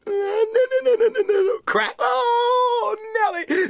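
put-on boy crying out as the tree cracks; panicked cries. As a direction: wail as the tree gives way. Tree falling, Wally panics.

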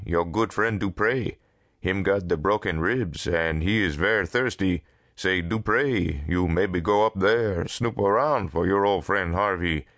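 lightly voiced sardonic character in broken English; a touch of singsong needling; Dupre. Dupre spells out Harvey's favour for him, lightly sardonic.

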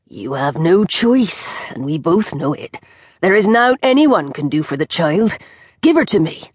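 a witch who knows she holds all the cards; old witch, grim. Acted. Witch's voice in the story.

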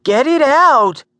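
high, loud, panicked shouting; alarmed cry. A narrator's reading. Gert demanding the creature be removed, alarmed cry. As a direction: shriek it out, stretching the last words. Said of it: "Gert cried".

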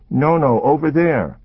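put-on high, urgent child pointing; scared little girl. A narrator's reading. Child character voice.

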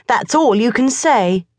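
put-on high, aggrieved boyish voice; a boy complaining to his cat; boy Morris grumbling. A narrator's reading. Morris complains to the cat about school, high and aggrieved.

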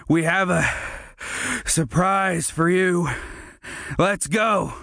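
lightly voiced gloating bully; taunting bully. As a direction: tease him with the surprise.

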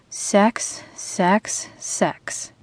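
teasing intrusive thought, dying away; fading whisper. A narrator's reading. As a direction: let each sex fade into a whisper.

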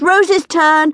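high, loud sudden shout. A narrator's reading. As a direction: grab and yell to startle her.

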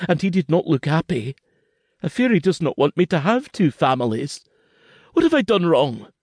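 put-on high, rushed frightened child voice; a scared little boy pleading with his papa; frightened boy's voice, pitched high; young boy Kenzie. A narrator's reading. Child Kenzie voiced in story, tearful.

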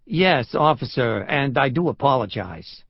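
put-on apologetic tourist in a New York accent. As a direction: apologize as a meek New Yorker. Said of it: "His New York accent grated".

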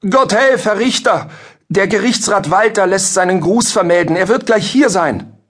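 very high-pitched, urgent servant; rufender Bedienter. A narrator's reading. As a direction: burst in and call out the news in a high voice. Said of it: "stürzte in diesem Moment ein Bedienter in den Saal und rief". (aufgeregt rufender Diener in hoher Stimme)

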